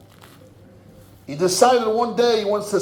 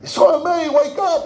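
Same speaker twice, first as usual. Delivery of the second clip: family calling, higher pitched; urgent call to wake him, only a touch louder; mild mock shouting; 9 semitones higher, 4 dB louder than usual. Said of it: "screaming and shouting".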